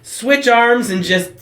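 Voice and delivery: mock-patient over-explaining; exasperated slow plea. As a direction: spell it out slowly to a nurse who won't listen. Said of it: "I'm just like".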